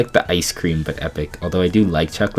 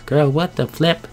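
shocked outburst; 7 semitones higher than usual. Real, not acted. Shocked reaction.

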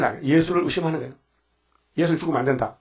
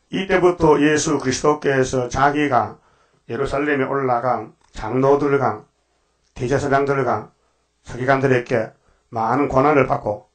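slow, solemn Bible reading; scripture reading; slower than usual. Acted. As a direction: read the verse out with weight. Reads scripture slowly. (성경 봉독하듯 천천히)

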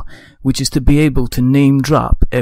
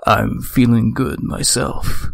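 movie voice; 2 semitones lower, slower than usual. Acted. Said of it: "we're gonna be doing up with movie voices".

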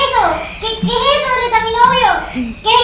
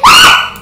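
sharp, high, loud shriek of fright; scared scream; 14 dB louder than usual. Acted. Girlfriend shrieking in fright at the witch. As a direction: scream as if something jumped out at you.

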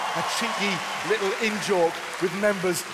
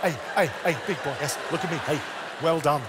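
Gok Wan impression. Shown as a demonstration. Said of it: "slip into Gawk".

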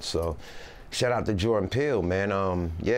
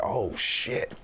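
higher-pitched retold astonishment; impressed surprise; 4 semitones higher than usual. Rapper recalling the slowed-down song turning dark, impressed surprise. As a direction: act out a sudden realization.

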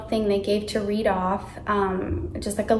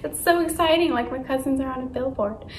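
put-on excited kid; 3 semitones higher than usual. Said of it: "I was so excited as a kid".

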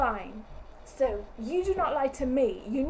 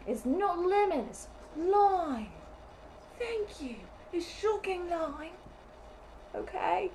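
mock irritation; 6 semitones higher than usual. Irritated correction of the co-host.

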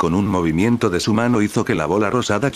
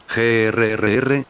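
slow, drawn-out mock growl; annoyed growl; 2 semitones higher, slower than usual. Majin Buu can't catch the chocolate, slow annoyed growl. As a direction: growl out the frustration. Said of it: "gruñó molesto".

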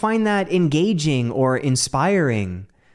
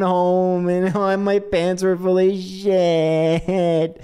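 laughing; 4 semitones higher, much slower than usual. Real, not acted. Laughing through embarrassing fart story.

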